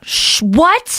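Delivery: high rising disbelief; shocked. Real, not acted. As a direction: gasp it out, stunned. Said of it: "shocked response".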